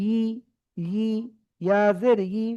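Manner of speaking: ই as a drawn yi off the palate; tongue-on-palate yi. Shown as a demonstration. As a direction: press mid-tongue up and glide into ই as yi. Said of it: "জিহ্বার মাঝখানটা ঠিক ওপরের সাথে লাগিয়ে".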